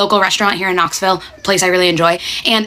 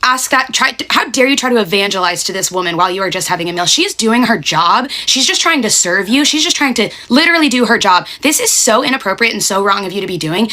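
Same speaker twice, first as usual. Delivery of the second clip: telling them off. Retold or imitated. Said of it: "I go off at them".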